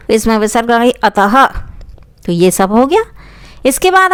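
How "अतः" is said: अतः ending in an audible "ha"; visarga ending. Shown as a demonstration. Teacher adding visarga to the word, अतः with an "ha" ending. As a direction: breathe out an h at the end of अतः. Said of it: "इसके उच्चारण ह की आवाज़ आती है".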